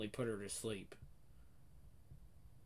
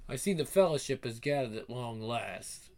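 lightly voiced fantasy herald; a touch of storybook grandeur; mock-epic proclamation. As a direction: announce it like a quest leader. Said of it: "Please stop talking like that".

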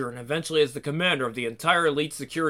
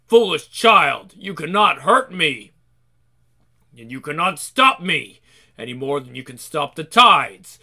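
cold rasping evil emperor; 3 dB louder than usual. Acted. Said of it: "villain Roger threatens Aspen".

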